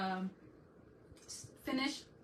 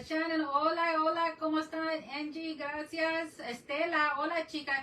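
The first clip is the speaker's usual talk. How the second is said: higher, louder, bubbly calls to each viewer; excited shouty greetings; 5 semitones higher, 3 dB louder than usual. Real, not acted. Welcoming chat friends on her live stream, excited loud hellos. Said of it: "If I sound like I'm shouting".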